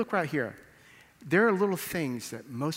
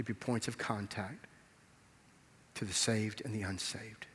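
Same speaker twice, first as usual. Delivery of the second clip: closing prayer. Real, not acted. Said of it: "Let's pray together".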